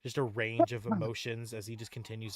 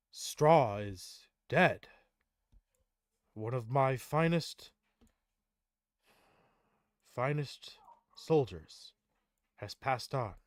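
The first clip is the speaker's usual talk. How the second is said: slow, grieving lament, a touch louder; heartbroken; 3 semitones higher, 7 dB louder, slower than usual. Acted. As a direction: mourn a fallen soldier, slowly. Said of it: "he becomes heartbroken".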